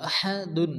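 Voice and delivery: আহাদুন with breath pushed through the h; big airy ha. Shown as a demonstration. Teacher demonstrating the big ha, airy throat h in আহাদুন. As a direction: push air out on "ha" in আহাদুন. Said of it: "মুখ দিয়ে বাতাস বাইরে করে উচ্চারণ".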